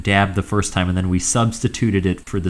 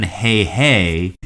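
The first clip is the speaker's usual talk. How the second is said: Krusty catchphrase; 2 semitones lower than usual. Retold or imitated. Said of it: "the big Krusty thing, truly his catchphrase".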